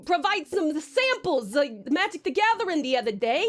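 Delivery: put-on old-time gangster twang, lightly done; old mobster accent. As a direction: talk like a 1920s mob boss. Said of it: "it sounds so funny to say these words in this accent".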